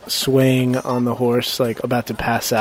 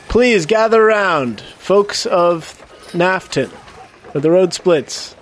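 town crier; 5 semitones higher, slower than usual. Acted. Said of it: "I say".

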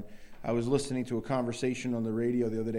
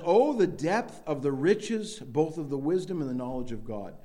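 emphatic exclamation. Shown as a demonstration. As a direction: draw out the depth of the riches in wonder. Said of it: "It's emphatic".

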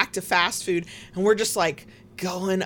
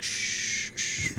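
shushing; 7 dB quieter than usual. Retold or imitated. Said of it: "was like".

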